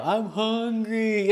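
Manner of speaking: put-on zombie-like hungry child. Asher after one missed meal, imitated zombie-like hungry whine. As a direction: drag it out like a starving little zombie. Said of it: "turns into a zombie".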